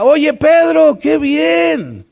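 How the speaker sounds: hammed-up congratulation with a bright call of his name; imagined Jesus heaping praise on Pedro, excited; mock delighted praise. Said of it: "él esperaba que Jesús le dijera".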